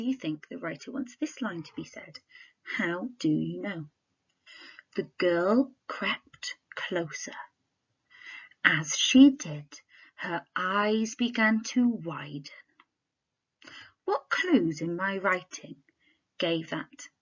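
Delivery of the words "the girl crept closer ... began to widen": hushed, slow storytelling voice; low and slow to build suspense. Shown as a demonstration. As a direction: creep through it in a low, slow hush. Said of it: "I used a lower tone in my voice and I slowed down".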